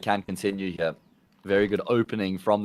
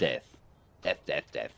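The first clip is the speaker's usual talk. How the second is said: normal South African death; 10 semitones lower, 10 dB quieter than usual. Shown as a demonstration. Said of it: "just as my normal".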